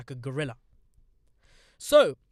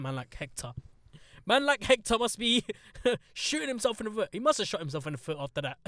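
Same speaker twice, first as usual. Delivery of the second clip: ordinary delivery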